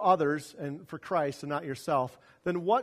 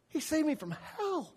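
high intense; 10 semitones higher, 4 dB quieter than usual. Shown as a demonstration.

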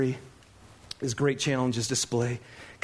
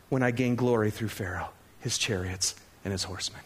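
voice of God; 7 semitones lower, 3 dB quieter than usual. Acted. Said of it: "So why are you crying out".

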